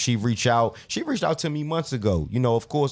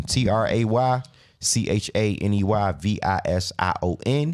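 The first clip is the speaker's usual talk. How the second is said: spelling it out; 3 semitones lower than usual. Real, not acted. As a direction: spell each letter out for listeners. Spelling out the account name.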